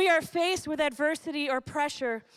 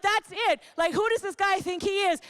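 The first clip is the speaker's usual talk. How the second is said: angry David; 4 semitones higher than usual. Pretend. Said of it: "he's like".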